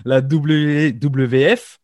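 "W W F" letters said slowly in a mock English accent. Shown as a demonstration. Host jokingly showing off to his guest, slow mock English accent. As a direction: spell out W W F the English way, drawn out, playfully. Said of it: "avec mon super accent anglais".

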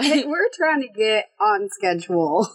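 hoarse, voice almost gone; raspy whisper. Real, not acted. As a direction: croak it out with no voice. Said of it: "I have no voice still".

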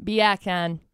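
low "beer can" in a Jamaican accent. Shown as a demonstration.

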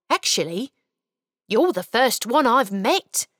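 a caught elf being friendly; cheerful little elf. Acted. Elf introducing himself to the boy, cheerful.

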